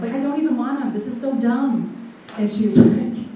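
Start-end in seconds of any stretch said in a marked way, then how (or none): 0.1-2.1 retold irritated protest. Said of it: "I was so angry".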